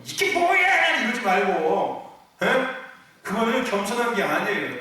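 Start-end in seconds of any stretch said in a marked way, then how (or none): 0.0-1.0 high, sharp mock tantrum cry. Believer throwing tantrum at God, mock whiny outburst. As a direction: throw a childish fit at God. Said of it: "땡깡 부리지 말고".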